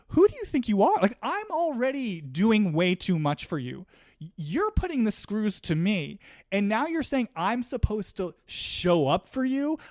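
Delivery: playing Rinna sputtering who do you think you are; indignant Lisa Rinna. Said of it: "this feeling from Rinna of".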